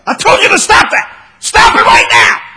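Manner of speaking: full-force shouted telling-off; angry parental yelling. Acted. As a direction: yell it like a parent who has lost patience. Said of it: "as long as you're yelling at 'em".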